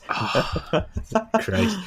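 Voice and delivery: exasperated. Real, not acted. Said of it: "exasperated reaction".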